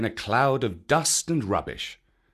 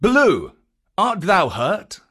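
Bagheera speaking; 7 semitones higher, 5 dB louder than usual. A narrator's reading. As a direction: ask with worry, pitched up. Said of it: "Bagheera answered".

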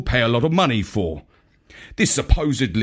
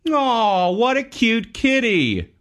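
higher, gushing coo over a kitten; cooing exclamation; 9 semitones higher, slower than usual. Acted. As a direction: coo like you just saw a kitten. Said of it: "exclaimed Marlowe".

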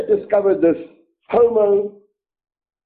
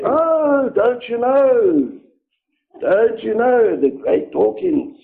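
sarcastic; slower than usual. Real, not acted. Mocking slow sarcasm.

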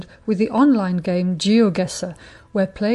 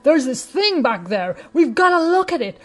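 higher, excited, hammed-up American accent; a deliberately terrible American accent, amazed pilot; bad American accent; 5 semitones higher than usual. Radio host imitates the pilot spotting the monolith, in a hammed-up American accent. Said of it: "with a terrible American accent".

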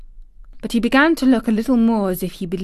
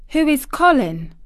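faltering; 7 semitones higher, 4 dB louder than usual. A narrator's reading. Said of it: "she faltered".

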